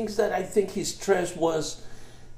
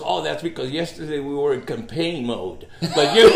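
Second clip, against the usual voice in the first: laughing punchline; 5 dB louder than usual. Acted. Devil's punchline, teller laughing.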